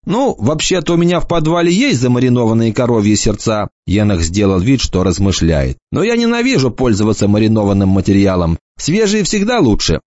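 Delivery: light mocking boy's voice; lightly voiced cocky boy. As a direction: toss it off like a smug teenager. Enoch's voice.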